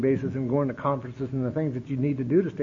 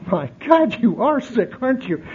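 laughing disbelief, a bit louder; sister laughing; 6 semitones higher, 3 dB louder than usual. Retold or imitated. Sister laughing at her brother's denial, laughing.

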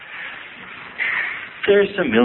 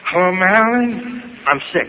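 higher mock-sick asthmatic voice; wheezy phone call; 5 semitones higher than usual. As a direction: play the sickly kid again, pitched higher. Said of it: "I go".

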